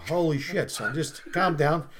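slow, understated reassurance; calming doctor. Acted. Doctor calming his upset patient, slow and understated. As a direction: settle the patient down without hurry.

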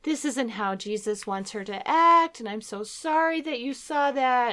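high, pleading mom apology; retold mother apologizing to her small son, tearful and high. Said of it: "I start crying, and I'm saying".

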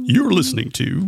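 high, sing-song radio announcer. Acted. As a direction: chime in as a cheesy DJ. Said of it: "Like, like a sing-songy radio voice?".

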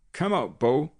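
loud call into an empty barn. A narrator's reading. Guard calls into the barn.

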